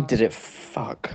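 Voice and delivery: whispered slow punchline; answering his own question in a deadpan whisper. Real, not acted. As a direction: drop to a dry whisper for the punchline.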